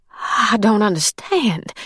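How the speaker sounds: voz trêmula e hesitante, com uma pausa entre as palavras; stuttering. Acted. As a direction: gagueje de choque, devagar. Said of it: "she stuttered".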